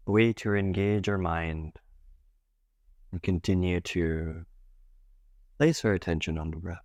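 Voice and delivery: calm meditation guide with long pauses between phrases; guided meditation. Acted. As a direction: gently guide them into breath awareness, leaving space. Leads a guided breath meditation.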